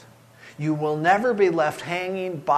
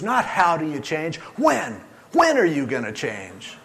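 confronting counselor; 4 dB louder than usual. Retold or imitated. Pastor confronting the cornered man, forceful. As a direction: press the question, punching "when". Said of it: "and he goes".

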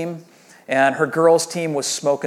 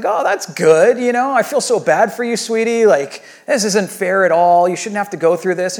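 sympathetic dad; 4 semitones higher, 5 dB louder than usual. Retold or imitated. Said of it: "And I was like".

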